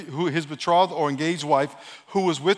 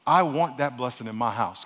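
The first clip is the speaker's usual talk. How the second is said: slower retelling; 4 semitones lower than usual. Acted. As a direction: take "I want that blessing in my house" slowly and lower. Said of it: "I'll say it really slow".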